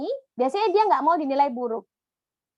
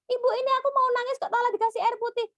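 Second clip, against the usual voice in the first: put-on whiny child; 9 semitones higher, faster than usual. Child complains about the water.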